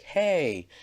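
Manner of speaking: loud, high shout of protest; angry shout. Retold or imitated. A girl shouting at the boy who grabbed her. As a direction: yell it to stop him.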